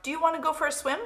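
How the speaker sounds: high-voiced duck character; storybook duck. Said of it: "said the duck".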